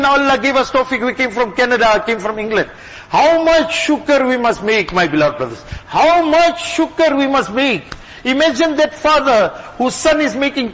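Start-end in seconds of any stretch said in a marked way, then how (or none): 3.1-4.9 slow emphasis. Real, not acted. Preacher repeats exhortation slowly. 5.9-7.8 slow emphasis. Real, not acted. Preacher repeats exhortation slowly.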